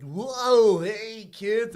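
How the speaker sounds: high-pitched mascot greeting; mascot bird. Retold or imitated. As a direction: imitate a costumed bird greeting kids. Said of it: "he's like".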